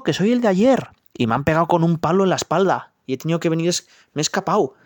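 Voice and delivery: high, rushed wailing donkey, lightly acted tears; a little donkey sobbing out his bad day, rising to a cry; crying young donkey. Young donkey back from town complains tearfully to his mother, high and fast. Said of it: "de regreso venía llorando, muy triste".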